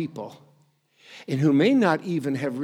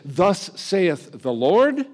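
solemn prophet; 3 semitones higher, 4 dB louder, much slower than usual. Retold or imitated. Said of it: "others to say".

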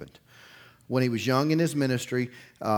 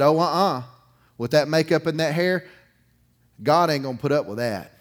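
loud scolding headshake "uh-uh"; mock the judgmental church ladies, louder; disapproving church folk; 3 semitones higher, 7 dB louder than usual. Church members rejecting the made-up young woman, loud and disapproving.

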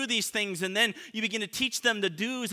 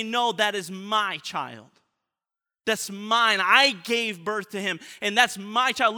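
possessive mother; 5 dB louder than usual. Retold or imitated. Possessive mother voiced in sermon.

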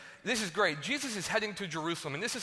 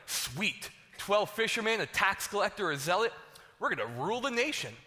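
higher, pumped-up boasting of a ragtag crew; mock eager disciples; 4 semitones higher than usual. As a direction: hype it up like they're about to take over. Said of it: "They're like".

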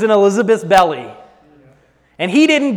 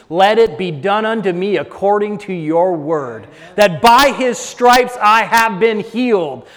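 building faith confession; 3 semitones lower than usual. Acted. Preacher modeling Mary's attitude for congregation, building confession. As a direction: start low and hushed, build to full-voiced declaration.

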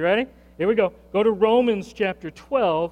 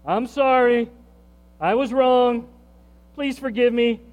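sincere apology; 5 semitones higher, 4 dB louder than usual. Shown as a demonstration. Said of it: "Turn to him right now".

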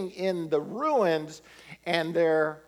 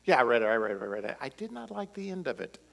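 soft, lower deadpan answer; mimicking the sketch reply; 3 semitones lower, 4 dB quieter, much faster than usual. Pastor parodies the sketch's answer, softly deadpan. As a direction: hand back a tired, flat mock reply. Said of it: "that sounded like our conversations".

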